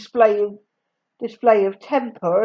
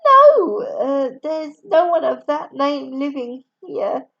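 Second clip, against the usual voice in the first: disguised voice; 4 semitones higher, 4 dB louder than usual. Acted. Katie lying on phone, disguised.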